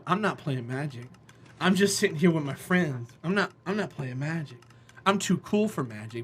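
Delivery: low, soft, too-cool denial; cool kid hiding. Retold or imitated. Cool kid denying he plays Magic, low and soft. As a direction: keep it down so nobody knows you play. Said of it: "low-key trying to hide".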